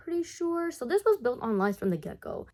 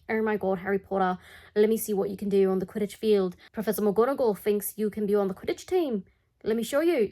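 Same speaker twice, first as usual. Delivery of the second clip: put-on half-hearted stab at a foreign accent as Oliver Wood; bad accent. Captain urging Harry onto the Quidditch field, in a bad accent. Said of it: "Sorry, I'm really bad at accents".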